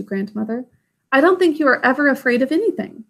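eager little princess rushing her promises; little girl Irene. Acted.

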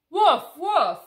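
loud playful puppy woofs; puppy barks. Acted. Being Biscuit the puppy for the kids, loud playful woofs. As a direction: bark like a happy little dog.

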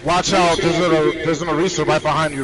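loud urgent warning; combat callout. Real, not acted. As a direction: shout the warning fast.

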